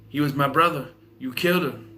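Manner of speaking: lightly attempted gangster twang; rough imitation with a touch of swagger. Shown as a demonstration. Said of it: "Talk like this".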